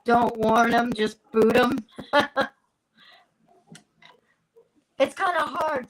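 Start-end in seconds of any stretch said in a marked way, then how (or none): 5.0-5.9 sipping between words; drinking while talking. Real, not acted. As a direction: talk around a sip of tea. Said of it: "Sorry I'm drinking".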